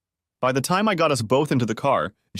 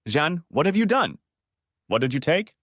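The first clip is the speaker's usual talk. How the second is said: frightened question; 6 semitones higher than usual. A narrator's reading. Husband frightened.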